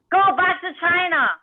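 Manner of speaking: high, loud mock yell; retold yell. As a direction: yell it like an angry heckler, imitating. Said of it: "she yelled".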